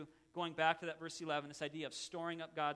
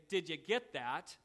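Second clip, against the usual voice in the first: teasing wife; slower than usual. Retold or imitated. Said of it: "oh so cruelly say".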